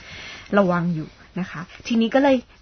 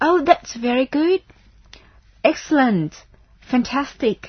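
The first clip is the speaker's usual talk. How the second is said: higher, louder and slow, delighted; congratulating; 6 semitones higher, 5 dB louder, much slower than usual. Shown as a demonstration. Teacher congratulating a student who passed the test, delighted. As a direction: gush over their success.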